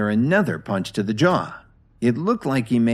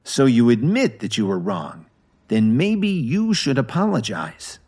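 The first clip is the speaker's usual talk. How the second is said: cold; 2 semitones higher than usual. Acted. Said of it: "Kevin said coldly".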